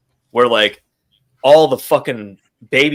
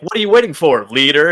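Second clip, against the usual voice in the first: mocking taunt; 3 semitones higher, 6 dB louder than usual. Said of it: "that kind of mockery statement".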